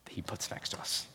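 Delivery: drops to a soft whisper. Real, not acted. Pastor whispering the point to the church. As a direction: breathe it to the congregation.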